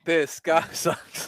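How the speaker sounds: slow, breaking into a laugh mid-line; laughing jeer. Pretend. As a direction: laugh through the insult. Repeated punchline, laughing through.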